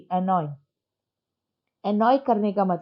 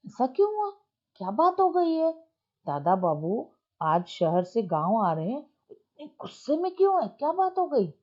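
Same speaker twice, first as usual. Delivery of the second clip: mother's worried question, pitched well higher; a concerned mother asking what happened, voice raised high; 4 semitones higher than usual. Retold or imitated. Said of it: "माँ पूछती है".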